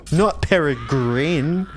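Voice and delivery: slow exaggerated wrong Peregrine; mock wrong pronunciation. Shown as a demonstration. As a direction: drawl Peregrine the wrong way, slowly. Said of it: "It's pronounced Peregrine".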